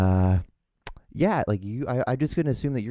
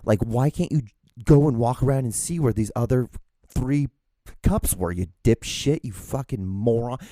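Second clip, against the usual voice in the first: upset at himself; 2 semitones higher, 3 dB louder than usual. Retold or imitated. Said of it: "I got upset at myself".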